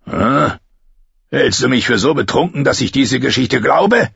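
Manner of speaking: lightly voiced drunken, menacing soldier; a hint of a slurring drunk sneering at the girl; betrunkener Bluthund. Bluthund glaubt ihr nicht. (leicht angedeuteter betrunkener Spott)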